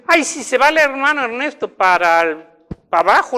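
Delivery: queja alarmada, aguda y fuerte; alarma imitada. Retold or imitated. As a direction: imita a quien teme lo peor, alzando la voz. (alarma fingida)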